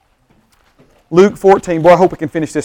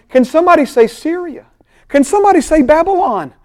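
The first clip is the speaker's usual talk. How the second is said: high, rousing call to the congregation; rally the crowd; preacher's rousing call; 10 semitones higher than usual. Real, not acted. Preacher calls for response.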